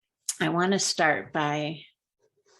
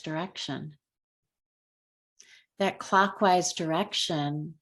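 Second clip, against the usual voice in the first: unhurried guiding voice with long pauses; calm, measured meditation lead; guided meditation. Real, not acted. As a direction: ease them gently through a color meditation, leaving space between phrases. Leads a color meditation.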